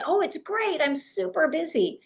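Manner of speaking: bright, high, dismissive boast of being swamped; bragging busy. Retold or imitated. Agent answering a contact's question, brushing them off busily. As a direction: show off how busy you are, shutting the door. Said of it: "Maybe we should say instead".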